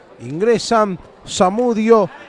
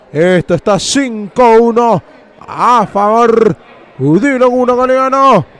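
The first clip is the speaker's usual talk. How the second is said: excited post-goal call. Real, not acted. Scorer and score after goal.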